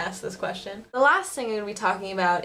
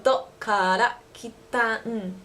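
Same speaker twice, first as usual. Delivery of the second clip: mock fast speech; much slower than usual. Shown as a demonstration. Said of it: "It's really, really fast".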